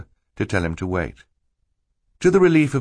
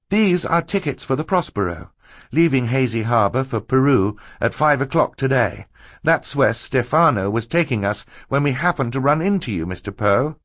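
put-on higher, earnest girl character voice; higher-pitched explaining voice for Violet; 6 semitones higher than usual. A narrator's reading. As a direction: lay out the villain's plot, pitched up. Narrator voices Violet explaining the plot.

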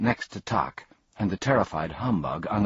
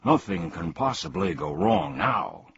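happy cry; 7 semitones higher than usual. Acted. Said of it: "cried the humbug happily".

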